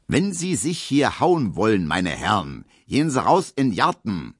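dignified dance-master order; cool authority. Acted. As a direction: settle the quarrel coolly. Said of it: "sagt er mit kühler Autorität".

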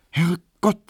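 high surprised Herrgott; exclaiming. Acted. Emma exclaims before noticing the time.

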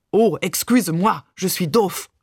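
put-on teasing French-accented apology; hammed-up French parody; mock French accent. A narrator's reading. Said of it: "ahmte Barbe übertrieben Mamans französischen Akzent nach".

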